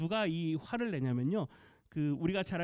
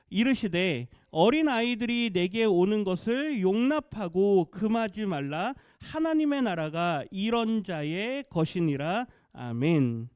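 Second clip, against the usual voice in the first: slow, measured reading aloud; congregational scripture reading; 5 dB louder, slower than usual. Real, not acted. Pastor reading the verse together with the congregation, slow scripture reading. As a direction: lead everyone through the verse, slowly and firmly. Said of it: "같이 한번 읽어보겠습니다".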